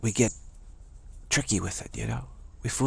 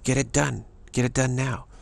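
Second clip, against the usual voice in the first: higher, firm fatherly command; 4 semitones higher than usual. Retold or imitated. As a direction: lay down the law as the dad, higher. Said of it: "the father comes home and says".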